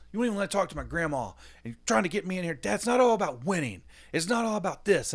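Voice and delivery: high, fast, loud whiny protest; imitating upset daughter. Daughter protesting to dad before the game, high and whiny. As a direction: rattle it off like a hurt kid.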